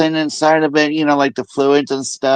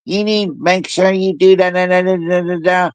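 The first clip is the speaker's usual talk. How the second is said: raised, run-on chatter into da-da-da; loud nagging nurse; 4 semitones higher than usual. Retold or imitated. Mimicking the nurse whose mouth keeps running, higher-pitched nagging. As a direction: imitate a nurse who won't stop talking. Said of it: "she's talking too loud".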